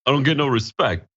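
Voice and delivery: mock comic complaint, repeated; Rodney Dangerfield style quip. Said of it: "I get what you're doing there".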